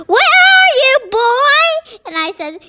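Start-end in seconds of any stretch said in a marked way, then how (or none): 0.1-1.6 very high, loud searching shout. A narrator's reading. Dad looking for his invisible son, shouting. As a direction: shout it out, pitch shooting up. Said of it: "and he shouts".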